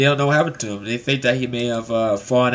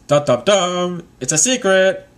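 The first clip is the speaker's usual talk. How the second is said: mock drumroll, higher and drawn out; teasing reveal; 5 semitones higher than usual. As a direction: build up a playful suspense. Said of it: "He's like".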